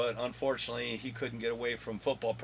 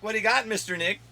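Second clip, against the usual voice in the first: playful; 6 semitones higher, 5 dB louder than usual. Real, not acted. Playful call to son.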